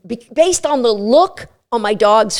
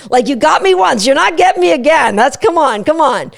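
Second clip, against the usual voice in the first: eager dog voice; faster than usual. Retold or imitated. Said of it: "get the dog up on their toes going".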